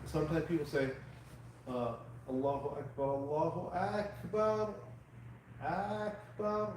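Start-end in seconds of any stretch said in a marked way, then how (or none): 2.3-6.7 "Akbar" sung with the alif dragged long and climbing high; overstretched Akbar. Shown as a demonstration. Teacher mimics a wrong adhan, dragging "Akbar" high and long. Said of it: "like extending the alif".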